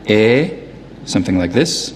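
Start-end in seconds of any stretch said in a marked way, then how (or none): 0.1-0.5 "E" as one steady, held vowel; a long, pure "E" without a diphthong; monophthongal vowel. Shown as a demonstration. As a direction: hold "E" with no glide at all. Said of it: "much more monophthongal".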